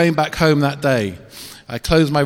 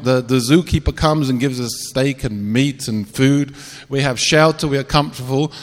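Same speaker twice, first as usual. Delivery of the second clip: lion voice; 3 semitones higher than usual. Acted.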